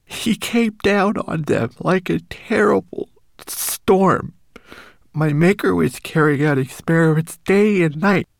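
high, small homunculus voice; a tiny frightened creature warning. Acted.

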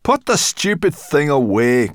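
gruff irritated growl. A narrator's reading. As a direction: growl it out, annoyed. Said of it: "growled Sorrel".

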